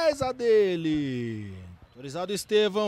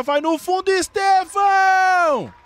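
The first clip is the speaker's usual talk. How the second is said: excited shout; 11 semitones higher, 6 dB louder than usual. Real, not acted. Shot on goal.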